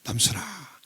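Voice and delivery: soft unvoiced whisper calling his name; hushed whisper of God. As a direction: breathe the name like a hushed divine call. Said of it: "하나님이 저에게 말씀을 하기 시작하셨어요".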